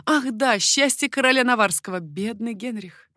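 lightly voiced queen, smiling; a touch of a smiling, wistful queen. A narrator's reading. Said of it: "улыбаясь, королева".

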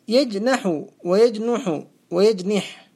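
يجنح ويجنح ويجنح said slowly as yajnaḥu, yajnuḥu, yajniḥ; vary the vowel after n in يجنح: a, u, i; three vowel forms. Shown as a demonstration. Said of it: "بالفتح والكسر والضم".

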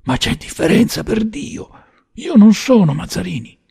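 high, frantic objection; panicked self-defence, pitched high; alarmed protest. A narrator's reading. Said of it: "tentò d'insorgere".

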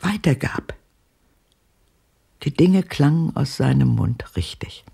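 hushed, reverent whisper; barely voiced recollection. Old woman recalls his voice.

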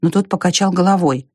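ordinary delivery, nothing marked

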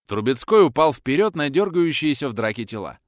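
ordinary talk, nothing marked

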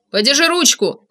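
mild narrated shout; shouted order. A narrator's reading. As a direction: call out a quick instruction. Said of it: "крикнул он".

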